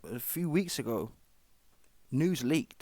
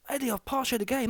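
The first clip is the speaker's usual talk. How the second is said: high mock whine of a rival, much higher; mocking Simon's whine; 11 semitones higher than usual. Vlogger mocks Simon talking to Eddie, high mock whine. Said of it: "That's what you say to the guy".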